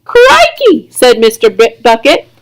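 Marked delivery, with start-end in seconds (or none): 0.0-0.9 surprised. A narrator's reading. Mr Bucket exclaims in surprise.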